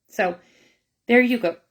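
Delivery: talking through hiccups; words broken by hiccups; hiccuping. Real, not acted. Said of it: "I'm hiccuping".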